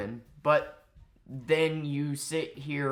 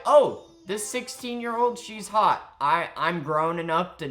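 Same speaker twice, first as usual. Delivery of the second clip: high, loud mocking voice; lightly hammed-up eager leer; mock creep quote; 6 semitones higher, 7 dB louder than usual. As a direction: imitate a creep getting excited. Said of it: "and you're like".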